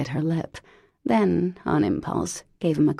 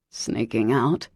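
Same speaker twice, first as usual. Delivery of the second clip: low teasing male voice; 6 semitones lower than usual. A narrator's reading. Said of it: "he said".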